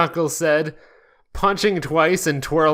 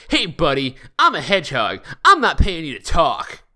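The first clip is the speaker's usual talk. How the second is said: put-on drunk Sonic. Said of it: "I was trying to do drunk Sonic".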